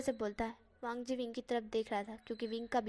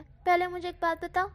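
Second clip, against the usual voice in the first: firm stop; 5 semitones higher, 6 dB louder than usual. Acted. Wang stopping Wing.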